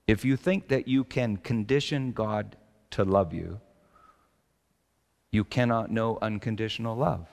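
said slowly and quietly for meditation; measured, meditative pace; slow and deliberate. Shown as a demonstration. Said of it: "I'll say this slowly".

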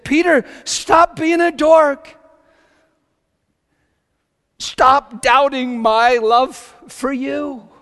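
loud, high, slow exclamation; Jesus as tenth grader. Retold or imitated. Jesus scolding Peter in tenth-grade boy language, shouted. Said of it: "He was speaking tenth grade boy, high school language".

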